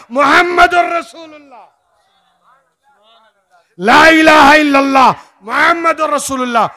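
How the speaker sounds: impassioned sermon, ringing out to the crowd; full-force preaching. Acted. Preacher challenges a crowd over the kalma, full-force preaching. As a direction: declaim it insistently, phrase by phrase.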